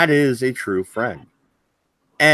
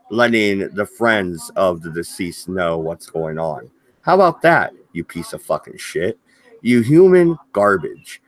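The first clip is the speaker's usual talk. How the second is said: angry rant. Real, not acted. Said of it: "I'm in a little bit of a rant mode".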